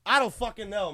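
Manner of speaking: usual speaking voice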